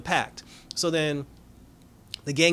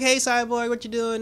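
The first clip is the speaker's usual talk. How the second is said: put-on high, singled-out kid greeting; pestering kid; 8 semitones higher than usual. Pesky kid bothering Cyborg, high childlike voice. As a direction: imitate a nosy child, pitched up. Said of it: "she's being a kid".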